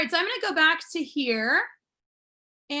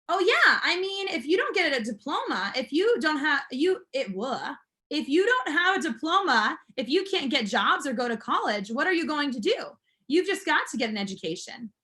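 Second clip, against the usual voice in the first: eager son. Acted. Reads son's lines.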